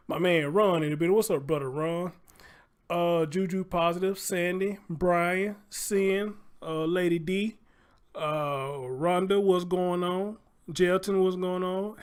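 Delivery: loud, upbeat shout-out energy; excited. Real, not acted. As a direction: hype up the chat greetings. Hyped live-stream shout-outs.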